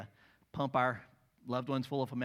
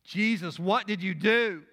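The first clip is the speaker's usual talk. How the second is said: high, louder, amazed question; astonished cry; 6 semitones higher, 9 dB louder than usual. Acted. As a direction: gasp it out in wonder. Onlooker astonished again.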